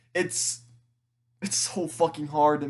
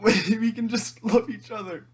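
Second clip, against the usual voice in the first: crying; 2 semitones higher than usual. Real, not acted. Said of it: "I'm still crying on the internet".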